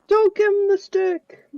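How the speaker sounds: mock dramatic order. A player parodies a G I Joe parody, a hammed-up slow order. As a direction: ham up a cartoon soldier's order. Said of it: "G I Joe piss takes".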